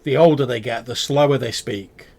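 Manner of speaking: tip off the traveller with a wink; amused merchant voice; knowing goblin warning. Acted. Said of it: "He says".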